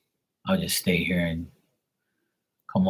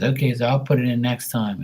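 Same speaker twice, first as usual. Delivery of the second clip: lightly imitated Filipino accent, a bit higher; a hint of mock Filipino accent, pitched up; 5 semitones higher, 3 dB louder than usual. Pool guy agreeing to wait, light mock Filipino accent. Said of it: "making fun of his voice and his accent".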